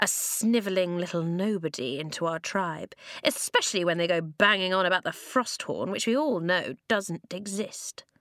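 plain reading voice

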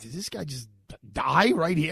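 frightened, fearful voice. Recalling watching a man collapse in court, the speaker retells being scared. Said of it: "And I was really scared".

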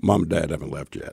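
unruffled, calm, level, matter-of-fact voice. Retelling a brother's quiet warning: imitating a calm brother. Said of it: "he's real calm".

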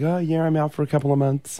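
ordinary delivery

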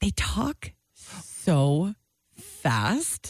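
drawn-out, very slow, deliberate words. Complaining that a tv show's characters talk too fast, deliberately slowed-down speech. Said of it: "slow down your voice?".

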